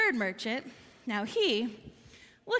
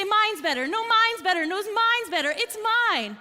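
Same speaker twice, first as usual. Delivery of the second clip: raised, higher-pitched squabble; acted bickering, louder with each retort kept up; competitive yelling; 5 semitones higher, 4 dB louder than usual. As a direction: merchants shouting over each other to win. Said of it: "they started again to yell and to compete".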